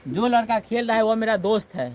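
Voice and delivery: proudly announcing a friend; teacher shows a proud claim about his friend. Shown as a demonstration. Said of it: "गर्व से कह रहे हैं".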